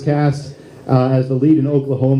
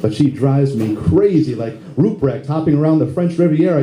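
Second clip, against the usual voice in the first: rhymed monologue in steady rhythm; comic spoken-word poem; 2 semitones lower than usual. Acted. Lead actor voicing Curly's inner monologue, rhythmic comic recital. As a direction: recite it as a rhyming comic piece.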